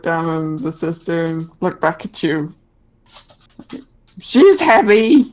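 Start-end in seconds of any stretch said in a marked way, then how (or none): 4.2-5.3 high, slow monkey voice; slow creature voice. Acted. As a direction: drag it out like a small beast.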